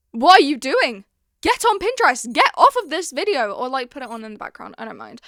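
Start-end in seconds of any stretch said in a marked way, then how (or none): 0.1-3.7 high, emphatic telling-off; mock scolding. Vlogger urging viewers onto Pinterest, mock scolding. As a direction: order them off in playful exasperation.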